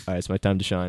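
low, quiet put-on voice; a hint of a lurking villain; lightly voiced villain. Imitating Candyman lurking.

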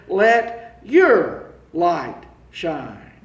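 "Let your light shine" very slow, "Let" leaned on; drawn out and weighty; emphatic LET. Shown as a demonstration. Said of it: "the emphatic position here".

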